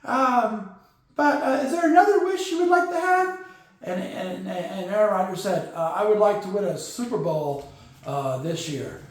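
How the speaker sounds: high, goofy sidekick puppet voice telling a joke; Corky's puppet voice. Acted. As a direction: keep Corky high and silly throughout. Corky tells the genie joke.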